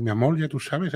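"amor" ending in an L sound, as in Cuba; Cuban R-to-L. Shown as a demonstration. Streamer demonstrating how Cubans drop the R, "amor" said with final L. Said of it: "El cubano no pronuncia la R".

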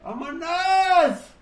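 long, high hype yell; excited shout. Real, not acted. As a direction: cheer the crowd on, stretched out. Arranca la música en el stream. (grito de emoción)

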